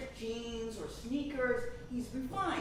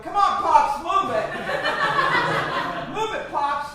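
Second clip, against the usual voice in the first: loud, sarcastic jeering; rude mockery; 6 semitones higher, 13 dB louder than usual. Impatient bus passengers jeering at an old man, loud and rude. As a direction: heckle like a pushy Brooklyn crowd. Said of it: "in their refined, classy way".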